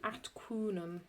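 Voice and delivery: atquunum said as one run, the e of atque dropped; elided pronunciation. Shown as a demonstration. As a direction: blend atque unum into atquunum. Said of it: "So we are going to elide them".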